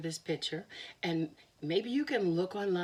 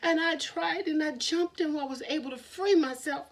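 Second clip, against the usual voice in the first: high rabbit voice; 8 semitones higher, 4 dB louder than usual. Acted.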